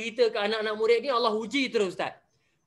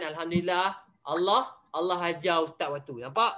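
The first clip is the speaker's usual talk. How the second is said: usual speaking voice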